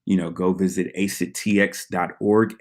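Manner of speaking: slight lisp on the s sounds; talking with a lisp. Real, not acted. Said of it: "the lisp is getting out of control".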